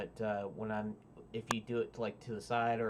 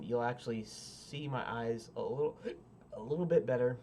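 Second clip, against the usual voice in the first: talking through hiccups; hiccuping. Real, not acted. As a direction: hiccup between words. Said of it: "Pardon me for hiccuping".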